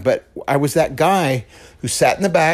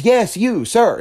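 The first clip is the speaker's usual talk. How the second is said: high, louder emphatic call; emphatic singling out; 9 semitones higher, 4 dB louder, slower than usual. Retold or imitated. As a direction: imitate a pastor picking someone out. Pastor singles out the startled man.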